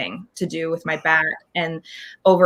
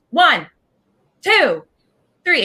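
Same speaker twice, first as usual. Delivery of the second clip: counting out; 9 semitones higher, 4 dB louder, slower than usual. Retold or imitated. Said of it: "she goes".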